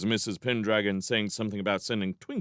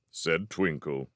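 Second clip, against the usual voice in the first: usual speaking voice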